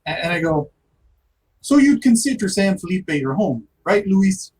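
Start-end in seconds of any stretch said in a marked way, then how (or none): 1.6-4.5 not threatening but scary. Acted. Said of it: "not threatening but scary".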